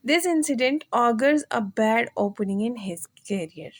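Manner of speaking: slow, deliberate reading; slow example sentence. Shown as a demonstration. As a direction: read the sentence slowly for students. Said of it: "ये इसका sentence है". (धीमे, ठहरकर पढ़ना)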